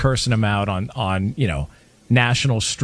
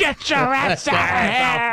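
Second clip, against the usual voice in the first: mock dad yell; 11 semitones higher than usual. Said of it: "dad line aimed at Rodgers".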